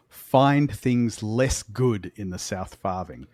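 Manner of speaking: slow, ominous warning; foreboding. Acted. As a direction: let the threat hang slowly. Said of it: "that foreboding statement".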